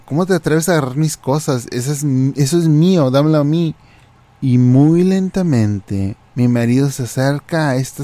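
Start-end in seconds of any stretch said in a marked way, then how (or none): 0.1-3.8 reclamo apurado, algo agudo; indignación imitada. Retold or imitated. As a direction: imita a una clienta indignada. Clienta indignada reclama el condimento. (berrinche posesivo, medio en broma)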